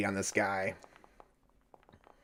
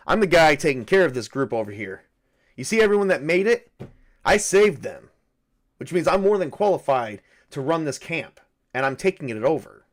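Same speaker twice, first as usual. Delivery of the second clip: assertive sergeant; 5 dB louder than usual. Acted. Sergeant tells Luke he is taking over the camp, louder. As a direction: push your authority over the camp.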